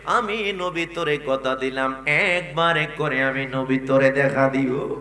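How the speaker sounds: sing-song promise with stretched phrase endings; intoned sermon reply. Acted. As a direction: chant it as a solemn answer to a devotee. Preacher intones the Prophet's reply.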